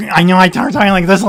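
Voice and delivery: quick presenter voice pushed up into the nose; a light nasal on-camera tone. Shown as a demonstration. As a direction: talk through your nose like you're on camera. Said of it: "My voice goes right up into my nose".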